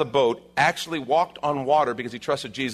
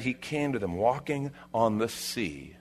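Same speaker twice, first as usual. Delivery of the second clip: softer, measured scripture reading; hushed, deliberate retelling; weighty reading; 6 dB quieter than usual. Acted. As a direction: let the wonder of it land. Rereads the verse with weight.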